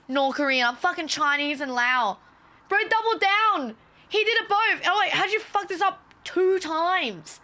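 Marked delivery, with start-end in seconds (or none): 2.7-7.4 high, slow, disbelieving rant; mock outrage at the airport guard's double mistake; incredulous outburst. Real, not acted. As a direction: throw up your hands in disbelief.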